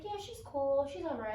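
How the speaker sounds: imitated eye-rolling daughter. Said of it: "she'll roll her eyes and walk away".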